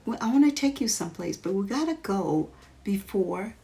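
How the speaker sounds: put-on high, quick urging little girl; eager little girl. Jamie rushing her friend before the record ends, in a high quick voice. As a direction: hurry them along in a high excited voice.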